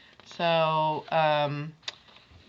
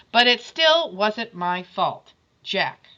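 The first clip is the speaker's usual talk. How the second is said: put-on stubborn boy; 5 dB louder than usual. Jack still defensive.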